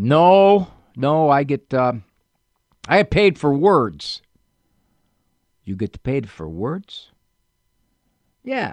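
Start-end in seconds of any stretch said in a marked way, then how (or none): 5.6-7.1 put-on Italian accent, lower and quieter. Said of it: "Papo never lost his Italian accent".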